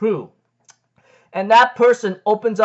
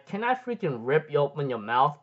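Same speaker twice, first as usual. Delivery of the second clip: inner thought; 4 semitones lower, 8 dB quieter than usual. Retold or imitated. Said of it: "I'm thinking in my mind".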